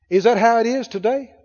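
ordinary talk

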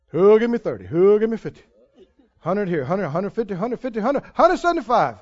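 lightly voiced auctioneer chant; a hint of an auctioneer calling bids. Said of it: "it's not supposed to feel like an auction".

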